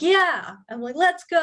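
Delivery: high, loud, pumped-up cheer; rally her like a coach before the fight. Retold or imitated. Cheering the girl on.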